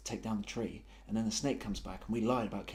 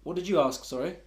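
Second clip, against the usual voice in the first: eager high reply; 3 semitones higher, 8 dB louder than usual. Acted.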